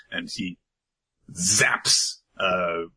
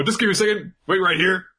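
higher-pitched eager request; mock flustered excitement; hurried Chrome; 10 semitones higher, faster than usual. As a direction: hold them off in a high, eager voice. Chrome hurriedly asks them to wait.

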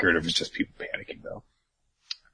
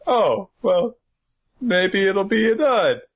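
high-pitched mock wishful voice; pitched-up character quote; acted hopeful reaction; 11 semitones higher, 3 dB louder, slower than usual. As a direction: stretch it out high, hoping aloud. Voicing characters' nervous hope.

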